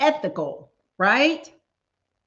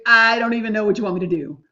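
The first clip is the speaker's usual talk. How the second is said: ordinary talk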